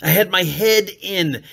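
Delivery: ordinary delivery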